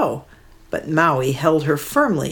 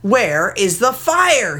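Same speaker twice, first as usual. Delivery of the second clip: slower, a mild angry yell; angry shout; 5 semitones higher, slower than usual. Acted. Maui demanding the fire, mild angry shout. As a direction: demand it of the bird. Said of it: "he shouted angrily".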